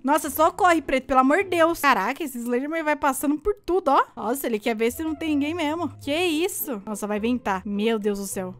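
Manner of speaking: ordinary delivery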